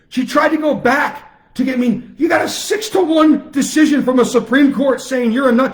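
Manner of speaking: angry rant. Real, not acted. Ranting at governor over court ruling.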